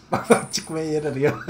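yavaş, gülerek konuşma. Real, not acted. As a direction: kahkahayla anlat. Kuş kaçmaya çalışırken gülme. (kuş kaçarken gülerek anlatma)

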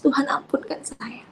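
retold prayer, sad and breathy; tearful prayer. Mother confessing to God she cannot cope, tearful. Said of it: "Saya menangis".

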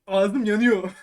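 slow words around a burning mouthful; mouth full of hot food. Real, not acted. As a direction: talk past a scalding bite. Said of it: "Ağzım yandığı için şöyle yapıyorum". (ağzı yanarken yavaşça konuşma)

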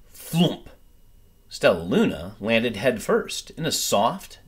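gentle storybook reading, lively and clear; story narration. A narrator's reading. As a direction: read it like a bedtime picture book. Reads picture book aloud.

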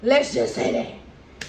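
slow, breathy whispered aside. Real, not acted. Whispering her verdict on the clothes to viewers. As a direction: drop to a slow secret whisper.

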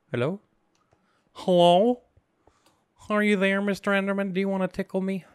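singsong mock call to Mister Enderman; playful calling out. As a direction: call into the dark, teasing.

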